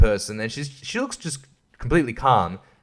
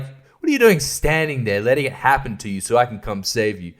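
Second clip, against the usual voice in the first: 1 mock rant; 3 semitones higher than usual. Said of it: "I just stand there and be like".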